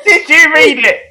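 asked through laughter; laughing. Real, not acted. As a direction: laugh while asking. Laughing at the retelling.

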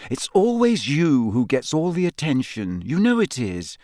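calm, explaining gently; patiently reasoning. Acted. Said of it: "said Hermione patiently".

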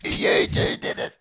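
high, breathy fake sobbing, slowly; mock crying voice. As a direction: wail it out in mock tears. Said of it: "I'm trying to do my crying voice".

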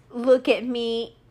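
slow, stretched "Look at me" that trails off; drawn-out mock "look at me". Mocking Jared Leto, a slow drawn-out plea for attention. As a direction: drag it out like a needy actor. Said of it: "But it's just".

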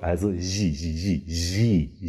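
"ji" with lips spread wide. Shown as a demonstration. Teacher drilling a spread-lip "ji". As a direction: sound "ji" from a broad smile-wide mouth. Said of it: "davor steht eben noch ein Zischlaut".

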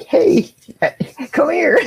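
imitating a call. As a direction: copy someone calling the dog over. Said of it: "She was like".

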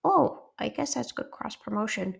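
lightly voiced high character; mild little-character voice; Truffles voice. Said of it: "that sounds like Truffles".

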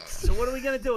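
put-on high, loud British accent; hammed-up British accent, loud and high; imitating a singer. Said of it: "Bobby does a pretty good John Lennon".

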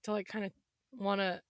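hoarse, voice giving out; raspy, voice going; losing voice. Real, not acted. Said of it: "losing my voice".

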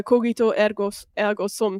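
ergo with a rolled R. Real, not acted. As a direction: roll the R in ergo, Italian style. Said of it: "I don't know why I rolled my R there".

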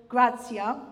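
"gratia" said in a light Italian accent. Shown as a demonstration. Preacher saying the Latin word, lightly Italian accent. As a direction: give the Latin "gratia" a playful Italian lilt. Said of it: "I said it in an Italian accent".

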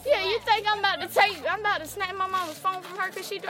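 you've got to be kidding me; incredulous. Real, not acted.

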